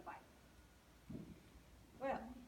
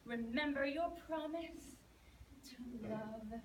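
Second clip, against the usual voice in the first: louder, slow sing-song croaking frog; croaky frog; 6 dB louder than usual. Acted. Frog pleading outside the princess's door, loud croaky sing-song. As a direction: croak and croon each plea at the door. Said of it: "croaked in his croakety voice".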